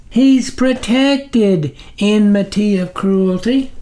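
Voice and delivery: high, slow pleading servant voice; groveling minion. A narrator's reading. Snuffer begging the sublord's patience, high and slow. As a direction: plead upward to your dark master.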